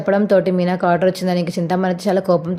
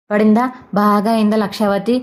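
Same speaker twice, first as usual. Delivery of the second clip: gloating taunt. Acted. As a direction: rub it in, savouring it. Balu mocks his mother after rebuke.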